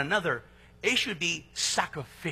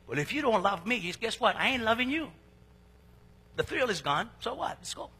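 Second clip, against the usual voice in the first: dismissive retort; 3 semitones higher than usual. Retold or imitated. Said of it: "tendency to say".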